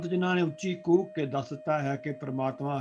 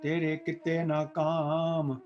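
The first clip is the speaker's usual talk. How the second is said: scripture recitation; 3 dB louder than usual. Acted. Preacher intoning Gurbani for the listening congregation, chanted. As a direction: intone the holy verse with devotion.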